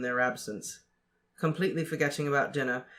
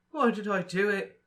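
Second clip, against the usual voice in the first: higher, frantic; wild; 6 semitones higher than usual. A narrator's reading. Ron asking himself in wild despair, frantic. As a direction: ask it in wild dismay. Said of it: "he said wildly".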